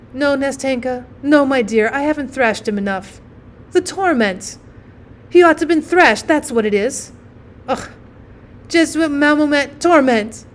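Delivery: lightly voiced mother, bitterly scolding; vengeful mother. Mother insists the boy needs thrashing, exasperated.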